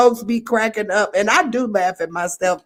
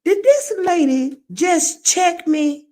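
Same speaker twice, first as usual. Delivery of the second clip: shocked disbelief; 9 semitones higher than usual. Retold or imitated. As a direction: act taken aback by the lady. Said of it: "You be like".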